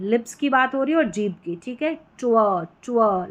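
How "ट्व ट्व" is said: "ट्व" as a T blended into a rounded W; lips-and-tongue TW. Shown as a demonstration. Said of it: "lips plus tongue blended sound".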